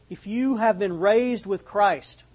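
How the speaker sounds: slow, deliberate scripture reading; measured Bible reading, unhurried. Real, not acted. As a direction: read it slowly and let it sink in. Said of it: "read this kind of slow".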